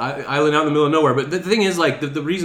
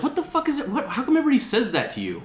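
baffled; 13 semitones higher, faster than usual. Retold or imitated. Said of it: "And I'm like".

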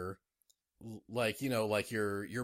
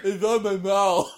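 high goofy dog voice; squeaky, silly sword dog voice; Zacian impression; 8 semitones higher, 11 dB louder than usual. Still voicing the sword dog.

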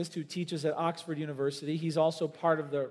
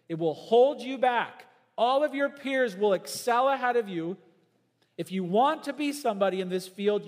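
raised, insistent professor's voice; stern professor; 2 semitones higher, 3 dB louder than usual. Retold or imitated. Professor pressuring a young student, raised and insistent. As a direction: press him hard to give up faith.

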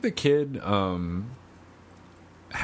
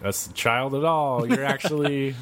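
surprised revealer; 7 semitones higher, slower than usual. Retold or imitated. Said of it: "It's like".

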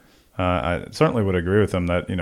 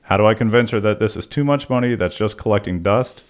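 put-on old prospector; 3 semitones higher, 3 dB louder than usual. Reads listener letter folksy.

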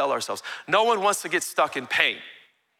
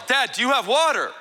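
mild mock yell; 6 semitones higher, 3 dB louder than usual. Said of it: "he just yells".

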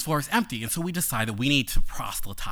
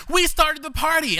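high laughing cry of triumph; 4 dB louder than usual. Retold or imitated. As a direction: shout it gleefully through laughter. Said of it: "he's laughing hysterically because he's like".

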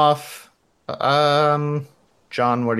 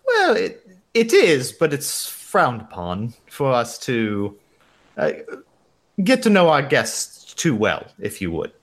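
put-on hesitant receptionist in a light German accent; Ramona. Receptionist explains staff rules to a guest, light German accent. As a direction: demur politely with a loose German accent. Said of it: "some variation of my shitty German accent".

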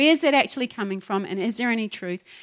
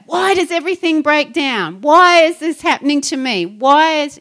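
mock complaining, higher and louder; playfully imitating a moaning friend; mock self-pity; 7 semitones higher, 8 dB louder than usual. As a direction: whine about everything breaking, hammed up. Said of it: "And she's like".

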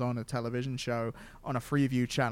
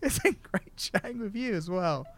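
stiff scripted outro; 5 semitones higher, 3 dB quieter than usual. Acted. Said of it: "That was natural as hell".

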